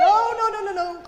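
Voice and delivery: loud no. Acted. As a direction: cut him off loudly. Quince cutting Bottom off.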